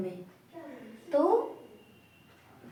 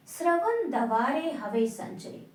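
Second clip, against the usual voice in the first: verse recital; 3 semitones higher than usual. Shown as a demonstration. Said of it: "ये श्रवण माने".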